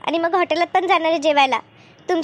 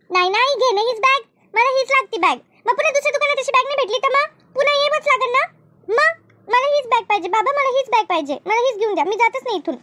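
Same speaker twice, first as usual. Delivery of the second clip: put-on pleading little girl, pitched higher; girl refuses to leave without the bag, whining; whining child; 4 semitones higher than usual. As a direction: beg like a stubborn kid. Child begs parents for bag.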